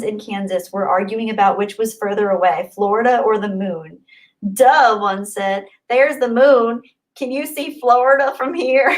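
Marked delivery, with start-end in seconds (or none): 4.5-5.0 drawn-out Southern drawl, slightly louder; awful Southern accent. Acted. Blonde in a joke answering her friend, Southern accent. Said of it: "sorry if my Southern accent was awful". 5.9-8.9 light put-on Southern accent, a bit higher; awful Southern accent. Blonde in a joke arguing about the moon, mock Southern accent. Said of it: "sorry if my Southern accent was awful".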